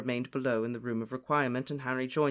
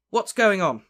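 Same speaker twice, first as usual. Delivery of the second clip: loud, higher question; raised, urgent query; calling out; 6 semitones higher, 9 dB louder than usual. A narrator's reading. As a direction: call it out eagerly. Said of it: "called George".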